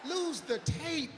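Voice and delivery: 1 urgent order. Retold or imitated. Host ordering tape destroyed.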